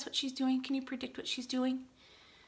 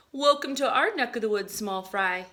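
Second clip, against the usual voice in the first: bright welcoming cloud, a bit louder; friendly cloud voice; 5 dB louder than usual. Acted. Teacher reading the cloud's welcome to the class, lightly voiced. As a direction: greet the little cloud warmly.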